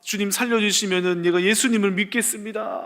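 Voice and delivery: 조금 높고 큰 소리로 애원하는 기도; 무릎 꿇고 살려 달라고 비는 듯; 간절한 기도. Retold or imitated. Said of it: "막 간절하게 막 기도하기". (살짝 높인 간절한 기도)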